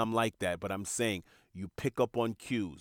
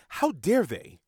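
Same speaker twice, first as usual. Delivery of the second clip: indignant ego voice; 3 semitones higher than usual. Retold or imitated. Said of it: "Your ego is what says".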